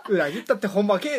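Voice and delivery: quoting the manga in Toyama dialect, laughing; Toyama line through laughter. Retold or imitated. Friend retells a manga line in Toyama dialect, laughing. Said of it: "っつって".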